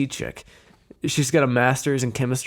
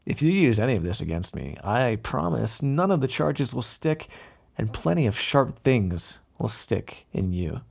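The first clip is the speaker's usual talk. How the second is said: veiled threat. Acted. Mob boss warning a detective off, veiled threat.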